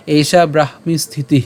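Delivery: এষা ব্রাহ্মী স্থিতি linked as one phrase; joined together. Shown as a demonstration. Teacher rejoins the split words, এষা ব্রাহ্মী স্থিতি said together. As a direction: run ব্রাহ্মী into স্থিতি without splitting the cluster. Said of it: "অবশ্যই আপনারা একসাথে উচ্চারণ করবেন".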